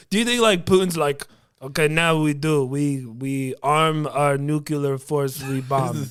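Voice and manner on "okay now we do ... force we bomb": lightly put-on Russian accent for Putin; mock Russian leader giving war orders in broken English. Comic imitating Putin ordering his forces, mock Russian accent. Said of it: "my Russian accent".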